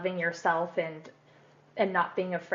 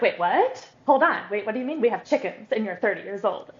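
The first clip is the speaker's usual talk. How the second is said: a little part hearing news it can't believe; amazed child part, voiced by the guest; surprised inner part; 5 dB louder, faster than usual. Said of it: "There's always this amount of surprise".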